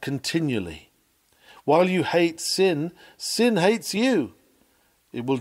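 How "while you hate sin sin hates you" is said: louder and higher, slowing hard on sin hates you; rising pulpit emphasis. Acted. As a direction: climb to the warning and drag the last three words out. Preacher's climactic warning on sin.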